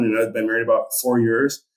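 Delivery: normal talking voice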